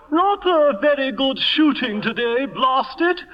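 a hint of a stuffy aristocrat grumbling about the shoot; mild mock upper-class bluster; pompous Lord Bottomley. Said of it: "that's Bottomley to the very bottom".

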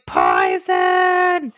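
high shouted cry of a line; poison shout. Retold or imitated. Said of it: "he starts going".

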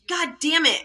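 little girl's "God damn it", mimicked; toddler swearing. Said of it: "she dropped something and she goes".

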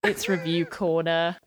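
fed-up, slow, unenthusiastic; weary disgust. Shown as a demonstration. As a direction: say it like you're sick of it. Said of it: "I sounded fed up".

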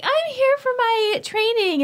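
high, slow, eager little voice; naive young self. Retold or imitated. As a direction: play your hopeful sixteen-year-old self. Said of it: "I was like".

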